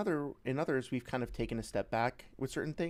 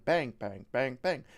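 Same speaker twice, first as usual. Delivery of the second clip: each bang louder with a shifting pitch; vary every bang in pitch and volume; varied bangs; 5 dB louder, slower than usual. Shown as a demonstration. Showing game sound variation, says bang with shifting pitch. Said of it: "add some variation where it goes bang".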